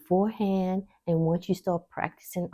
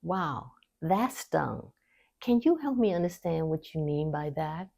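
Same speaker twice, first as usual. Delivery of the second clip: calm reply. Shown as a demonstration. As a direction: answer gently instead of snapping back. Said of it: "you pause, you breathe, and you say".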